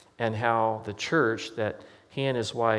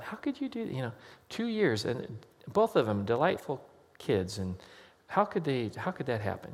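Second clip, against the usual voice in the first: shocked disbelief. Retold or imitated. Pastor's shocked inner thought.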